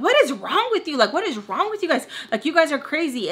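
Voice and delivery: high, swooping indignant demand; exasperated outburst. Retold or imitated. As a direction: act out losing patience in a quarrel. Acted angry outburst in family quarrel.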